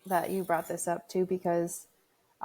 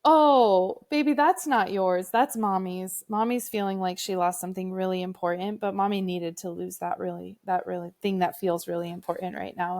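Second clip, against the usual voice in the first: tender comfort; 3 dB louder than usual. Retold or imitated. Mother explaining her loss to her son, tender and emotional. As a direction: pour out care, then calm down. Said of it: "I was like".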